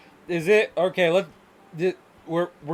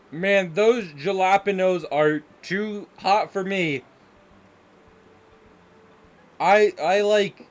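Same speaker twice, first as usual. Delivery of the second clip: higher-pitched Midwestern American caricature; stereotypical white American; 4 semitones higher than usual. Acted. Streamer mocking spice-shy Midwesterners, hammed-up American accent. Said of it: "this is the American stereotype right here".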